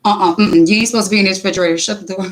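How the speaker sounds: put-on fast, bossy kid policing his brother; a lightly voiced bossy little enforcer; prophet police. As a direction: son scolding his brother at the fridge. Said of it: "the prophet police".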